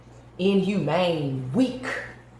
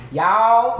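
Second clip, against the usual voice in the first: excited call; 4 semitones higher, 8 dB louder than usual. Real, not acted. Calling out to viewers.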